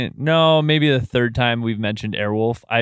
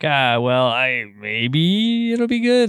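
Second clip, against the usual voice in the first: dismissive mock voice; 4 semitones higher, slower than usual. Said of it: "basically, like".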